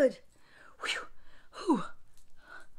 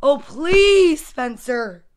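exasperated mom; 2 semitones higher, 10 dB louder, much slower than usual. A narrator's reading. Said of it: "rolling her eyes".

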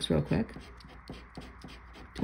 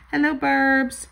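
cutesy; 7 semitones higher, 5 dB louder, slower than usual. Real, not acted.

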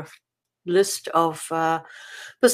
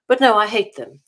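louder, emphatic "I hate them"; firm declaration; 3 semitones higher, 5 dB louder than usual. Real, not acted. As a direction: say it out, flatly and firmly. Firm restatement of hatred.

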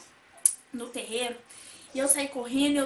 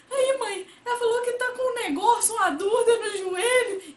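tearful alarm; 9 semitones higher, 8 dB louder than usual. Retold or imitated. Retold child crying to mom.

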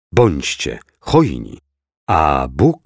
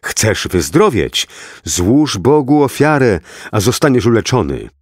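mild shout; 4 semitones higher than usual. Acted. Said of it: "krzycząc".

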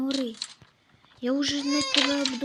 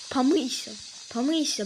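loud order; 5 dB louder than usual. Real, not acted. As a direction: bark it out loud. Bossing game baby to wash. (гучний наказ)

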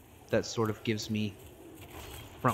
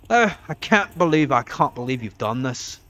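quoting the meme; 2 semitones higher, 7 dB louder than usual. Retold or imitated. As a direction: deliver it like the famous aggrieved meme line. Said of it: "That meme".

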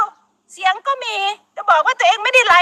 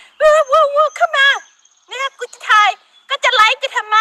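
higher, mocking taunt; taunting challenge; 6 semitones higher than usual. Imitating the YouTuber daring the villagers, mocking taunt. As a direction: goad them to come closer, jeering. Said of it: "ท้าทาย".

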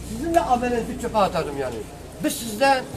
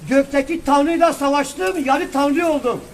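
raised, forceful, slowed-down argument; heated preaching; 3 semitones higher, 4 dB louder than usual. Real, not acted. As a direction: preach it hard and loud.

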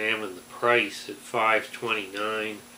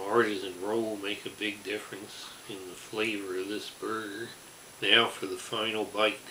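talking with food in mouth; speaking between bites; chewing while talking; 6 dB quieter than usual. Real, not acted. Seen 2: Bit at -4; holds burger at mouth, jaw working throughout.

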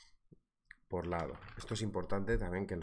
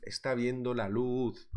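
normal talking voice

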